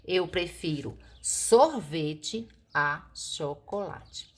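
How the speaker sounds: slow, rising model sentence with sorvete lifted; slow correct version. Shown as a demonstration. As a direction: dictate it slowly to the class. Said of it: "O correto é isso".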